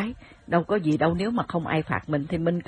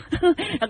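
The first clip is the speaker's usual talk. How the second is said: high laugh; 12 semitones higher than usual. Real, not acted. Laugh after the impression.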